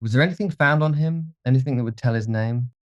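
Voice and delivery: high, urgent questioning; startled. A narrator's reading. Dorian leans toward the man, startled and urgent. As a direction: press for the name, pitched high. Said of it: "with startled eyes".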